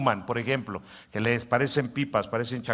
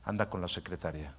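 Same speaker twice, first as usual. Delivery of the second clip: softer, coaxing tempter; tempting inner voice; 4 semitones lower, 8 dB quieter than usual. Acted. Pastor voicing the inner voice tempting a husband, soft coaxing. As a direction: coax it softly like a tempter. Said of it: "tu voz interior te dice".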